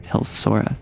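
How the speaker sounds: hushed, secretive tease; whispering like spilling a juicy secret; conspiratorial whisper. Real, not acted. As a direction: lean in and whisper the gossip.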